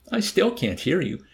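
high, puzzled reply; guileless, high-pitched complaint; innocent obliviousness. A narrator's reading.

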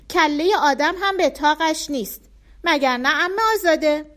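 put-on high, loud eager child voice; a small boy dreaming aloud of God's garden; little boy Bardia. A narrator's reading. Bardia telling aunt Azadeh about God's garden, high and eager.

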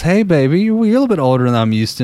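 hint of a come-on in the voice; escort voice. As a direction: play a cooing escort, lightly. Acting the escort in a joke.

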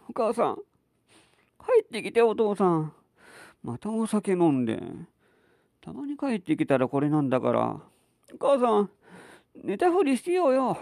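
a small daughter whispering to mom; little girl voice. Acted. Child Kaoru voiced in story.

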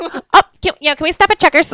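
high, excited mock pleading; playful eager request. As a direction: pretend to be thrilled, asking for treats. Playing an eager kidnap victim.

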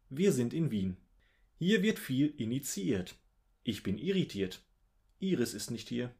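measured, theatrical verse delivery with swooping stresses; poem recitation. Acted. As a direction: recite each line as its own little verse, pausing between. Recites a second vowel poem.

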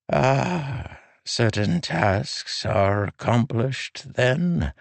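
put-on high, slow old man's voice; frail old man. A narrator's reading. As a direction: speak as a gentle aged king.

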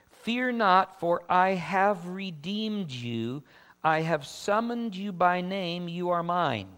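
slow, emphatic proclamation of a Bible verse; measured preacher's reading, building on the promise; scripture reading. Acted. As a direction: read it out as God's declaration. Reads scripture aloud.

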